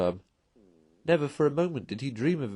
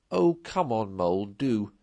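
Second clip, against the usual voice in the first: cheerful; 3 dB louder than usual. Acted. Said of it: "replied the rat cheerfully".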